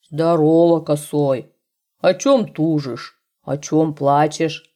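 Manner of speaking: lightly voiced bear. A narrator's reading. Bear greets hare.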